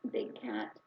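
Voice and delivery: breathy whisper to the tiger; hushed pet name for the cat. Retold or imitated. Tender address to tiger.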